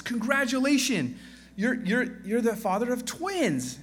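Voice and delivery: nurse announcing. Acted. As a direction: play a cheery nurse breaking the news. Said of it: "a nurse goes up to the first man and says".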